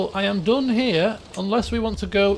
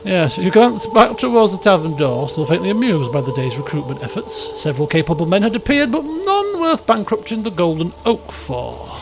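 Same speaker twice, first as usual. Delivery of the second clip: story narration. A narrator's reading. Narrator telling the party about the dancing Aelfwine, measured. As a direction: paint the scene for the listeners.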